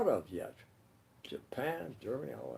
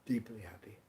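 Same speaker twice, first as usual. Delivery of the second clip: gentle, sincere greeting sinking to a hush; heartfelt wish; 9 dB quieter than usual. Acted. Greeting Stephen with a hug at New Year, heartfelt and gentle. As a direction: wish them well tenderly, letting it fade.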